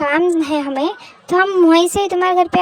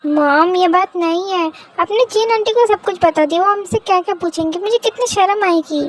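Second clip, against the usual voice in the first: whiny plea, slightly raised pitch; embarrassed protest. Acted. Daughter dreading auntie's questions, complaining to mom in embarrassment. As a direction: stretch the opening, then complain anxiously.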